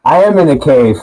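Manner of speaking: echoey, like in a cave. Real, not acted. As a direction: voice bouncing off cave walls. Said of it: "you just sound like you're in a cave".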